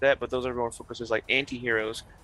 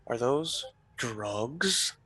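slow gravelly mobster drawl; Penguin voice; 5 dB quieter, much slower than usual. Retold or imitated. Penguin impression while watching.

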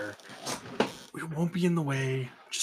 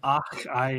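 mock Scottish. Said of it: "after every damn thing you say".

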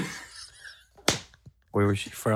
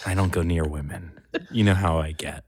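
put-on sultry voice. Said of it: "You never knew I had this voice".

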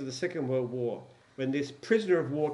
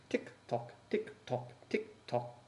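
hushed tick tock, much softer; whispered tick tock; 5 semitones lower, 9 dB quieter, slower than usual. Acted.

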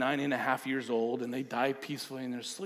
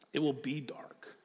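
whispered warning; hushed; 5 dB quieter than usual. Real, not acted. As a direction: breathe it like a secret. Sermon drop to hush.

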